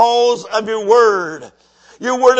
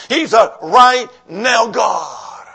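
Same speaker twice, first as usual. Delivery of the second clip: slow shouted declaration; much slower than usual. Real, not acted. Preaching climax.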